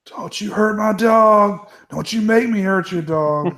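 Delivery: a hint of a desperate captive shouting threats; mock threat. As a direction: threaten over the dog in a lightly voiced put-on captive. Movie threat quoted in voice.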